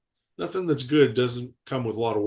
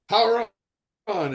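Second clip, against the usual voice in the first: high, raised call of the show's catchphrase; 8 semitones higher than usual. Retold or imitated. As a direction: sing out the catchphrase like a hero's cue.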